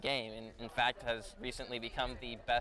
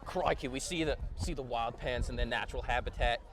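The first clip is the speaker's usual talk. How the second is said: Australian wildlife presenter voice; hushed safari host, lightly done; nature documentary. Pretend. Wildlife host parody of students.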